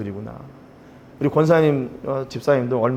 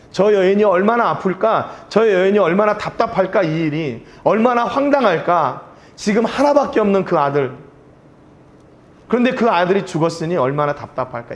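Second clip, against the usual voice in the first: impassioned, higher-pitched lament; anguished empathy; 5 semitones higher than usual. Acted. Preacher voicing Elijah's pain over the widow's only son, anguished. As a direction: voice Elijah aching for the grieving mother.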